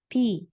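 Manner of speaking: pi, lips barely puffed. Shown as a demonstration. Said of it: "jadi dibacanya pi". (ucapkan pi dengan p lembut)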